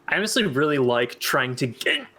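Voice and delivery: talking with the hiccups. Real, not acted. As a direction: speak between hiccups. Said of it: "I've got the hiccups".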